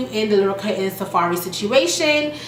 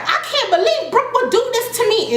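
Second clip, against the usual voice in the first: imitating hurt disbelief; 12 semitones higher than usual. Lyrica in confessional, voiced high.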